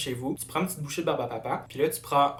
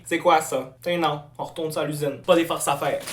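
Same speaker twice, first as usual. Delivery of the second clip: loud complaint; 3 semitones higher, 8 dB louder than usual. Acted. Complaining loudly about the candy.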